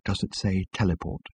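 low, hushed and tense; quiet. A narrator's reading. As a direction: say it quietly, with menace. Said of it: "said Ford quietly".

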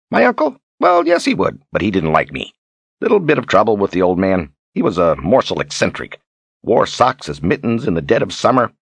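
lightly voiced, chatty Zed; Zed, explaining himself. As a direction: explain away an awkward family question.

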